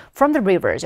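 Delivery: "From the rivers" as one chunk, then a stop; pause after the phrase. Shown as a demonstration. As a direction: break briefly after "rivers". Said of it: "여기서 살짝 한번 쉬어볼게요".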